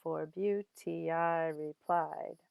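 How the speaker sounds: "For beauty, I replied" slow, beats on BEAU, I, PLIED; iambic stress. Shown as a demonstration. Teacher demonstrating meter, slow iambic "For beauty, I replied". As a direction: beat out "For beauty, I replied" in deliberate short-long steps.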